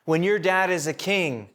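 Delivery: butter up the prince, pitch lifted; sweet-talking the sulking prince; flattering schemer. Retold or imitated. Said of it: "It's like saying".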